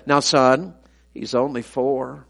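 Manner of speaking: soft and slow, letting it down easy; a grandpa calmly defending the boy; mild, quiet fatherly reassurance; gentle fatherly rebuke. Retold or imitated. Dad gently corrects the speaker.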